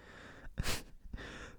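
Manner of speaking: breathy, voiceless burst of laughter; imitated laugh. Student laughing at the teacher, whispered laugh. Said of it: "so I'm laughing".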